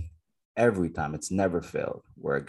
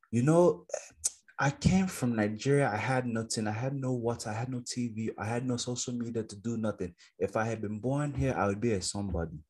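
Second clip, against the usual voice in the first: lightly voiced immigrant parent, higher, lecturing; Nigerian parent lecture; 4 semitones higher than usual. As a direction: mimic a parent recounting hardship, raised pitch. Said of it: "Every Nigerian ... has heard this".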